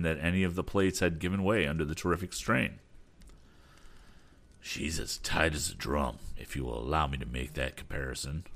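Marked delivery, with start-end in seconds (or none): 4.6-8.4 lightly voiced captain, lower and modest; a hint of a humble old sea captain. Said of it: "remarked Captain Weston modestly".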